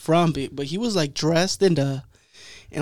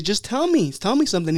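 pleading exasperation, pitched up; fed up; 5 semitones higher than usual. Retold or imitated. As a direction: imitate a barber begging for any answer. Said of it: "fool got fed up with him".

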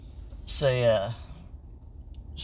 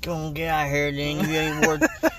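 mean homeowner; 3 dB louder than usual. Acted. Plays mean homeowner chasing kid off.

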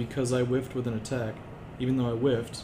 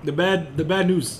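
put-on very old man; 6 semitones higher, 8 dB louder, slower than usual.

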